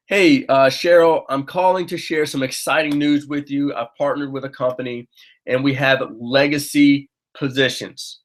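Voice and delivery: upbeat phone invite, stress on legacy; demo inviting script. Shown as a demonstration. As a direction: call a friend with exciting news, lean on "legacy". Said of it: "Put some emphasis on that word legacy".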